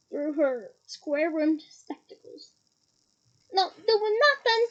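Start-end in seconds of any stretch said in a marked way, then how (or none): 3.5-4.6 a hint of a cackling poltergeist; cackling Peeves. Peeves cackling back at McGonagall, lightly voiced. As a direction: toss it off with a cackle. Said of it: "cackled Peeves".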